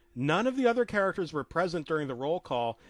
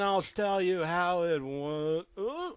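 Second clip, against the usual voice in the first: startled cutoff; 3 semitones higher, much slower than usual. Acted. Story cut off, startled.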